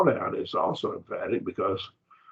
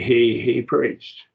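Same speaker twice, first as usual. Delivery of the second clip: HE said twice, both higher and stressed; emphatic doubled pronoun; 4 semitones higher, 4 dB louder, much slower than usual. Shown as a demonstration. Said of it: "it's emphatic".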